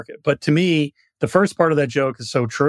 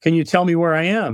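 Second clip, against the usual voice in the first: higher-pitched call from afar; 4 semitones higher, 4 dB louder than usual. Acted. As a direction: call down politely to a stranger below. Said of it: "he calls out to me".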